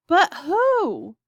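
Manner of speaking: a short, high, loud demand; a mild yell, pressing for an answer. Acted. President pressing Shuckworth over the radio, a mild yell. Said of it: "yelled the president".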